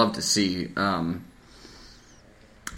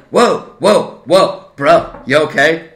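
high, louder mock worried bro; friend's concern; 3 semitones higher, 4 dB louder, slower than usual. Derek checking on his upset friend, high mock concern. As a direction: imitate Derek calming him down. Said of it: "And he's like".

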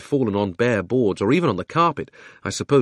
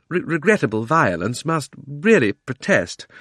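flustered uncle, slightly higher, stumbling at the start; halting protest; 6 semitones higher than usual. Acted. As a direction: protest haltingly, drawing out the end. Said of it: "He began muttering something about".

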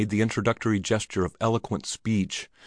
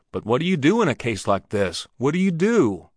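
anxious pleading; 5 semitones higher, 3 dB louder than usual. Acted. Drummer anxiously presses.

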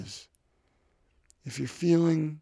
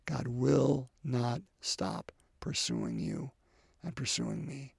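whisper; 5 dB quieter, slower than usual. Real, not acted. Sermon, intimate promise.

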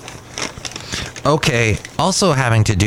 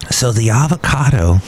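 choking. Real, not acted. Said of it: "sorry, I'm choking here".

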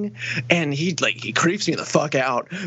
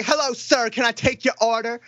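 slightly raised put-on order-taker voice; imitated Black woman's voice; 2 semitones higher than usual. Order taker greeting a customer, imitated Black woman's voice. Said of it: "like the most stereotypical black chick".

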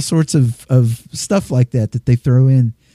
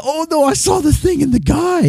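obnoxious American tourist. Retold or imitated. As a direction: play a grating American tourist. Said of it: "He said".

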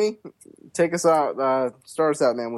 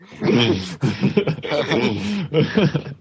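sinister laugh; 4 semitones higher than usual. Acted. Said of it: "that sinister laugh that Corey has".

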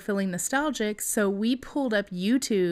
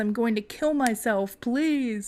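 mock desperate pleading; 3 semitones higher than usual. Acted begging, denied as how it was.

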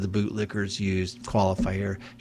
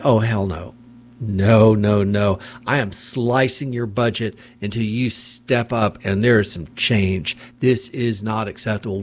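indignant refusal. Pretend. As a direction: slam the idea down as a fed-up mayor. Imagined mayor condemning police.

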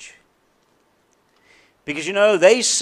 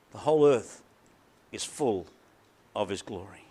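fading to hush; 9 semitones lower, 9 dB quieter than usual. Shown as a demonstration. Hymn line fading away.

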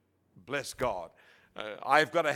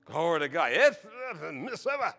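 put-on Mississippi accent. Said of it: "if you go to Mississippi".

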